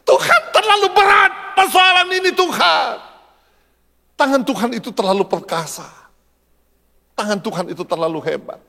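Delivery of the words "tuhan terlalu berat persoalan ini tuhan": high, strained cry to God; desperate plea. Acted. A believer overwhelmed by problems calls to God, desperate shouted plea. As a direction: cry out under a heavy burden, stretching the words.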